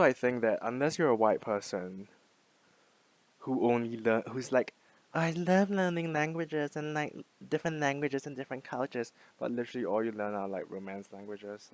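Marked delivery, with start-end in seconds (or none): 5.1-9.1 mocking gushy language-learner. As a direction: parody someone gushing about their hobby. Mocking a self-satisfied language learner.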